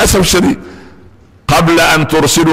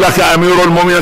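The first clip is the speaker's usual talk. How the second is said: higher, lively rushed interpreting; hurried translating; 6 semitones higher than usual. Retold or imitated. Omar hurriedly rephrases for the desert Arab. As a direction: Omar rushing to rephrase the question. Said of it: "فعمر بيترجم بسرعة".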